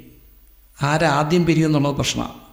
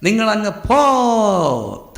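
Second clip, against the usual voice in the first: lightly acted teacher, long drawn-out "പോ"; pleading teacher; 3 semitones higher, much slower than usual. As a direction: shoo the mothers away with drawn-out pleas. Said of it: "teacher വന്ന് പറയും".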